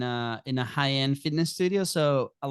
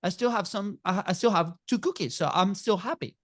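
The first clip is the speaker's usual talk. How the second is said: put-on higher kid voice, shrugging it off; a small boy reassuring himself he's fine; content little son; 5 semitones higher than usual. Dad voicing his son, higher and contented.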